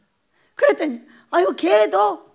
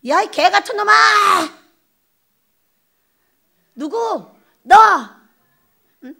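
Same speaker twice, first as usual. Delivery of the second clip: mock outrage; 3 semitones higher, 5 dB louder than usual. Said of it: "이런 소리를 들었어요".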